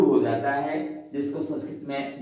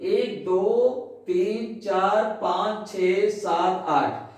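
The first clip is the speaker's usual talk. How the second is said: counting syllables; 3 semitones higher, slower than usual. Shown as a demonstration. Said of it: "देखें आप".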